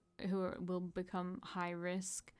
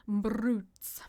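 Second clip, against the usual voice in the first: whispered; 7 dB louder than usual. Acted. Whispered echo of the word.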